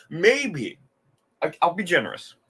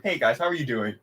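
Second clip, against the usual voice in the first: flat mock greeting; 3 semitones lower, faster than usual. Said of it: "he just, like, asked them".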